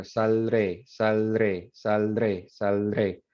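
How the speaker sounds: saldré said with a D naturally slipping in between l and r; pronunciation demo. Shown as a demonstration. Teacher models saldré while students try it without the D. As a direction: say saldré repeatedly, letting the D come in on its own. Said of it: "Now try saying that, um, without the D".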